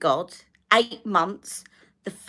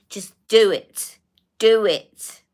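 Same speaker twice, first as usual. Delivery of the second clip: insistent demand; 3 semitones higher, 6 dB louder, slower than usual. Retold or imitated. Insisting on the injection.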